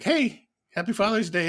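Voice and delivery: high-pitched mock wake-up greeting; imitated wife's greeting. Wife waking husband on Father's Day, imitated high greeting.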